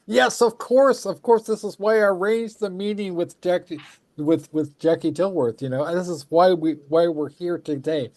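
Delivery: high, gushing fangirl squeal; squealing excited. Retold or imitated. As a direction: gush with delight. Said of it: "Jordan is squeeing".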